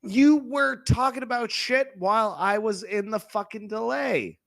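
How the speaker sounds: indignant complaint. Acted. Caller berating the host over the delay, indignant. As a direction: complain hotly, voice pushed up.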